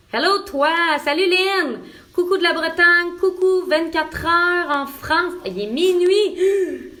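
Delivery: high, loud, drawn-out calls; excited greeting. Real, not acted. Host greeting late-night viewers in France, excited. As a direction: call out hellos across the distance, high and slow.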